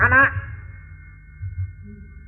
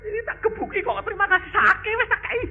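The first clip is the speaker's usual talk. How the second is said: lightly voiced God; 11 semitones higher, faster than usual. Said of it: "Lalu Tuhan bilang".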